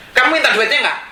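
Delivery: high, sharp retold demand; imitating a wife's pointed questioning; fierce wife. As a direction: press the question like a scolding wife. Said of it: "kok istri saya yang lebih galak ya?".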